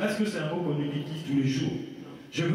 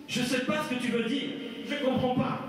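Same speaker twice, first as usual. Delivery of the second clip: feigned incomprehension, higher pitch; Pierre qui nie; 5 semitones higher than usual. Acted. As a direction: play dumb as Pierre, voice lifted. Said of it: "Donc moi, je suis Pierre". (Pierre qui fait l'ignorant)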